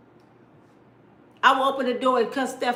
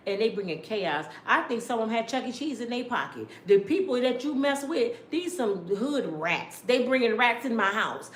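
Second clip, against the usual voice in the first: scolding brother; 2 semitones lower than usual. Retold or imitated. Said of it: "I said".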